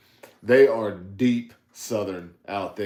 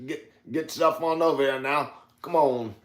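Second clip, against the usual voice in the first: put-on old Southern man voice; 2 semitones higher than usual. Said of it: "old Southern black man kind of voice that I do".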